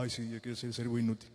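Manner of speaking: mock eager.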